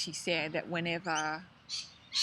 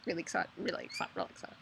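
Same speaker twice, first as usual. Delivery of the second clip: really excited; 4 dB quieter, much faster than usual. Real, not acted. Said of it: "I bet you can tell I'm really excited".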